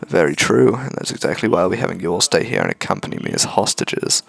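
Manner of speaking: low, quiet croaky villain; a hint of a croaky menacing man. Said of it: "Croaky voice voice for him".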